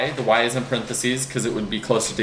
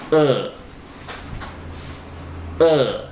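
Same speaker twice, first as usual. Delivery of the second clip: pained gut grunt; 3 semitones higher than usual. Shown as a demonstration. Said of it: "it sounds like".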